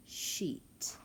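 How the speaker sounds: sheet whispered softly; whispered word. Shown as a demonstration. Teacher whispers the blended word to the class. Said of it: "double E says E".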